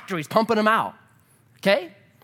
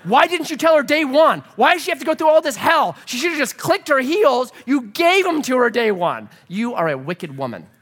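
higher, louder mock outrage at the godmother; hammed-up indignant rant, higher and louder; 5 semitones higher, 4 dB louder than usual. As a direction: scold her like a wronged kid. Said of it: "I'm like".

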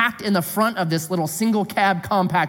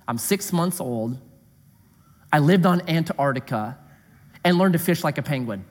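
mocking quote; 4 semitones lower than usual. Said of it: "mocking the claim".

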